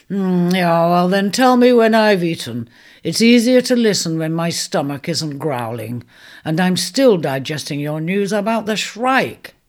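a famished centaur wanting his stew first; hungry centaur. Acted. Hungry centaur puts off the mouse.

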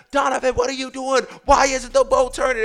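high, loud, exasperated yell. Retold or imitated. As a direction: re-enact yelling across the water. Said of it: "And I'm yelling".

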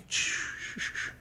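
whispered shush; buddy hushing the bartender, whispering. Retold or imitated. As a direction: hush him urgently.

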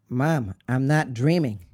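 pleading, urgent insistence; insistent protest. Retold or imitated. Son insisting to his dying mother, urgent protest. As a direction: protest to Mom, voice still under control. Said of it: "I said".

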